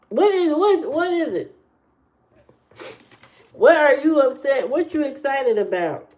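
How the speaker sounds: surprised. Real, not acted. Reacting high to chat.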